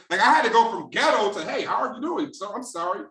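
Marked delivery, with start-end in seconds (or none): 1.4-3.0 proper, careful job-seeker tone; mild switch to a professional voice; polite phone voice. Retold or imitated. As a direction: sound polite to land the job. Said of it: "I had to change my voice up".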